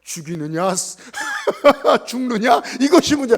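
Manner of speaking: loud, laughing mock Hamlet line; preacher mocking his younger self through Hamlet; laughing parody. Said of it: "저는 뭐냐면".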